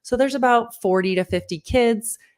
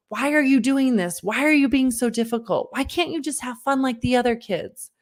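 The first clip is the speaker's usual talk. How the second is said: put-on higher, frustrated questions pressed at the child; exasperated demands; 5 semitones higher than usual. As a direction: vent at a difficult kid. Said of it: "I'm launching into him like".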